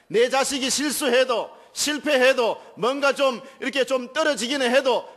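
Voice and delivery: high, loud, impassioned sermon climax; fervent preaching. Acted. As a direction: build up to a ringing pulpit cry. Preaching at full force.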